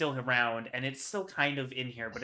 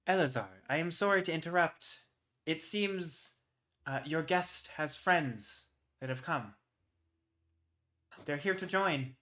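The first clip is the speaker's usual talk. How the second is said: female servant voice; 4 semitones higher than usual. Acted. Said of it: "a female voice go".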